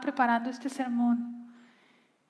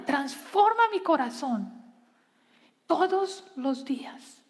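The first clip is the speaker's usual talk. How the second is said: heartfelt preacher's prayer; earnest prayer; 2 semitones higher than usual. Acted. Leads a spoken prayer.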